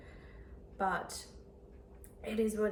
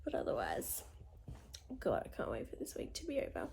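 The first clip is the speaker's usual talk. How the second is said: whispering; 6 semitones lower, 7 dB quieter than usual. Real, not acted. Tired aside about the week.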